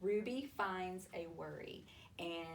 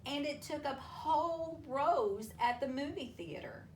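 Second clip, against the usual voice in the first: expressive picture-book storytelling with long pauses; reading to children. A narrator's reading. Teacher reading a worry story to children, storytelling voice.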